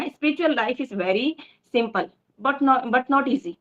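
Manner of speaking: slowed right down, weighing each word of "simple, but not easy"; slow emphatic quote. Real, not acted. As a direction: lean on it word by word, very slowly. Preacher quotes Prabhupada with emphasis. (धीमे-धीमे, हर शब्द पर ज़ोर)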